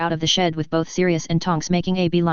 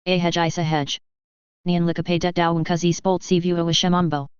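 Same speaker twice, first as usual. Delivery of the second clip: put-on Welsh accent. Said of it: "in his deep Welsh countryside accent".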